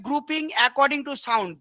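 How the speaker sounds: very slow, word by word dictation; slow dictating teacher. Shown as a demonstration. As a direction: spell it out slowly for the students to copy. Teacher reading definition aloud.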